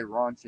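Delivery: "ranch" said as "rahnch", with a long open back a; broad South African "ranch", sounding like "raunch"; South African pronunciation. Shown as a demonstration. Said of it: "No, you can't".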